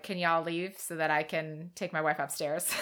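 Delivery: words through laughter; laughing. Real, not acted. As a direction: laugh while you say it. Laughing while quoting Simon.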